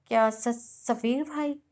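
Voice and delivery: words broken apart in disbelief; halting, shocked question; disbelieving stammer. Acted. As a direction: stumble over the name, unable to believe it. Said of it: "बेयकीनी से लफ्ज़ तोड़-तोड़ कर अदा किए थे".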